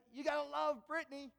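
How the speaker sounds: put-on light British accent, upbeat; a hint of a British accent, cheerful. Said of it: "his great British accent".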